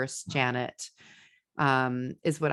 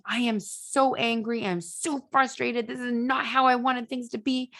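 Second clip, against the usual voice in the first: mock frustration; 8 semitones higher than usual. Shown as a demonstration. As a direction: act out being fed up, drawing it out high. Demo of saying feelings aloud.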